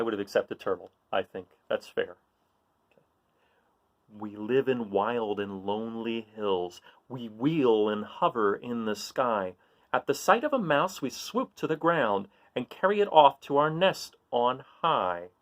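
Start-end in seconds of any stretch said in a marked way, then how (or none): 4.2-15.3 put-on slow, sing-song riddle reading for kids; reading riddle aloud. Reading a riddle to young listeners, slow and playful. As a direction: read it slowly to the children, savouring each clue. Reads eagle riddle to children.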